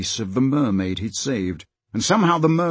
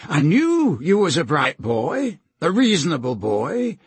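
higher-pitched, lightly voiced schemer; wheedling villain; 4 semitones higher than usual. Slank flatters Peter before adding a condition, lightly wheedling. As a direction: coax the boy with false praise.

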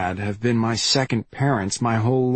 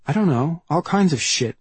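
put-on girl's voice; 6 semitones higher than usual. A narrator's reading. Branley's quoted line.

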